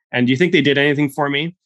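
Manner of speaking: a hint of Texan old-timer; Texan accent. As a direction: quiz them as an old Texan. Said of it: "accent every single time".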